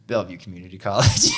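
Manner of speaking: proud, loud and brash; laying it on thick. Retold or imitated. Retelling answering the Cornell boss with proud brashness. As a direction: announce it boldly, owning it. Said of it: "I just fucking laid it on".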